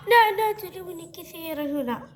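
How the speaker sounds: gasp, then whine in pain and fear; scared child being examined; frightened, crying protest. Acted. Hurt child protests during examination.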